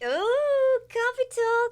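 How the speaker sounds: high, loud mock New Jersey accent; hammed-up Jersey Shore accent. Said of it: "Let's get some Jersey accent up in here".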